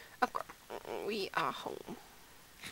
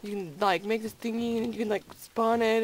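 breezy YouTuber imitation. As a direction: rattle it off as if obvious to everyone. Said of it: "these guys are just like".

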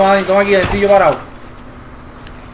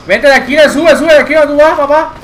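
raised, higher urging call; urgent call; 5 semitones higher, 4 dB louder than usual. Real, not acted. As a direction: call a teammate over urgently. Urge a compañero a subir. (llamada urgente, en voz alta)

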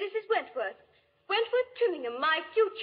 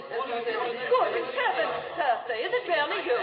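shocked; 3 semitones lower than usual. Acted. Shock at Percy's return.

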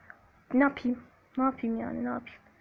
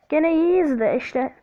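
slow, breathy whispered aside; 4 dB louder, slower than usual. Acted. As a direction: whisper it slowly as a secret. Sudden whisper in play. (yavaş, fısıltıyla)

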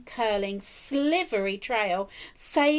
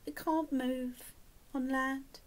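moaning; 8 dB quieter, slower than usual. A narrator's reading. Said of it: "moaned the whale".

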